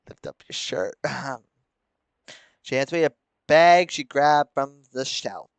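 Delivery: ordinary talk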